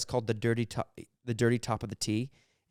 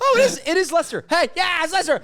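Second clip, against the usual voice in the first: mock British gloating; 8 dB louder than usual. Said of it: "mock British triumphant".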